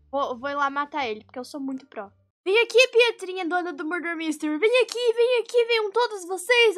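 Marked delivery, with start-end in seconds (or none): 2.4-6.8 taunting. Real, not acted. Taunting enemies in game.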